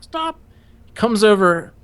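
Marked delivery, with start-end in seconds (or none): 0.0-0.4 soft, high repeat of stop; quiet echo. Retold or imitated. Recruit repeating the order to himself, quiet. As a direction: echo the order back meekly. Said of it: "and I'm like".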